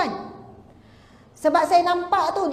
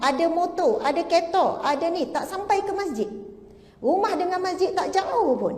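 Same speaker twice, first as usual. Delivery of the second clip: slightly raised, emphatic preacher's delivery; preaching exhortation. Real, not acted. Preacher chiding listeners who skip mosque, exhorting. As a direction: press each point home to the congregation.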